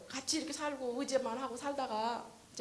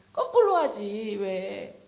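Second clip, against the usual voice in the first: loud slow plea; 12 dB louder, much slower than usual. Retold or imitated. Pleading with dead husband.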